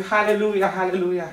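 put-on loud, high, childlike cry of joy; joyful hallelujah. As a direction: shout it like a child jumping with joy. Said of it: "tôi nhảy như một đứa trẻ".

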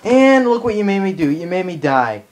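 annoyed gamer rant; frustrated rant. Real, not acted. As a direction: complain out loud after dying. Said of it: "sorry for all the ranting".

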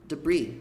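"Debris" with the final S silent, falling; S mudo. Shown as a demonstration. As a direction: say "Debris" as if it had no S. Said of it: "Como se o S não existisse". ("Debris" sem pronunciar o S final)

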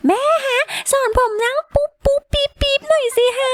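very high-pitched pretend child; little boy voice. Game child asks mum for potty lessons, high child voice. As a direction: plead like a small boy to mum.

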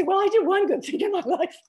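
high, loud, bubbling with laughter; laughing. Pretend. Joking about meeting Saint Peter, laughing through it. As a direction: giggle through the line at the pearly gates.

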